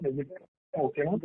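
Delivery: faint voice on the call; too low to hear clearly; barely audible. Real, not acted. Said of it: "still very low".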